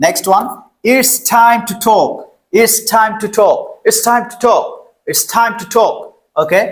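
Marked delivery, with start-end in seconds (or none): 0.9-6.0 "time to talk" slow, with puffed t sounds; sentence pronunciation drill. Shown as a demonstration. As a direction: model "it's time to talk" deliberately, falling on talk. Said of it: "এখন বাক্যতে আমরা এটা use করব".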